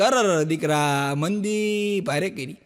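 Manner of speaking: slow, drawn-out mock groan of a father; slow mock despair over bad business; mock lament. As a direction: stretch it out like a sighing old father.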